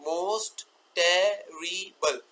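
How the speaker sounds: most terrible as most, te, ri, ble with pauses; very slow, each beat of most terrible alone; four sounds. Shown as a demonstration. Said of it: "तो चार में convert हो सकते हैं". (most terrible को चार sound में तोड़कर)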